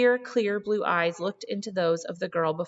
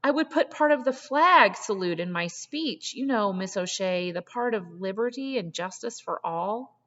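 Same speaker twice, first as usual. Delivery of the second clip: high, urgent pleading; words spilling out, barely holding together; near-hysterical rush; 3 semitones higher than usual. Acted. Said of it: "the words tumbled out almost hysterically".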